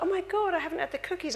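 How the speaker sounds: high, startled realisation; mock surprise. Bride retelling her sudden cookie realisation, surprised. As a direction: gasp it as if she just remembered. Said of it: "I thought".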